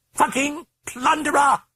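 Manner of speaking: high, loud, rasping British curse; harsh British rasp. A narrator's reading. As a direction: spit it out hoarsely. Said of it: "it rasped".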